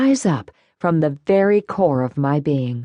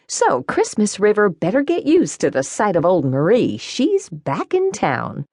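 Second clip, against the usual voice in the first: lightly raised showy woman voice, slowing at end; a hint of a proud returning diva; Marie voice; 5 semitones higher than usual. Marie speaks at dinner.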